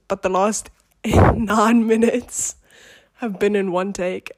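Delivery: running out of breath, breathy; talking while short of breath. Real, not acted. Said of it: "I'm slowly running out of breath".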